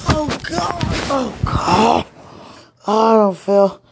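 loud, high anguished cry. Real, not acted. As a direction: call out to God in distress. Crying out in distress.

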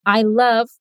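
I love, chocolate desserts, slow with long pauses; slow, chunked repeat. Shown as a demonstration. Teacher leads the repeat slowly in chunks.

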